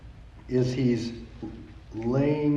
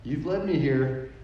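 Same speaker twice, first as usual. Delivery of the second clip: retold quiet prayer; 7 dB quieter, slower than usual. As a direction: pray under pressure, softly, with long pauses. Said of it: "I pressed the pause button, and I prayed".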